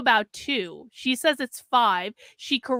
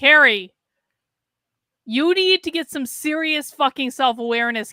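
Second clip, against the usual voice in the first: "Carrie" called out much louder; calling out; 2 semitones higher, 5 dB louder than usual. Real, not acted. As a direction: call "Carrie" out sharply, like summoning her.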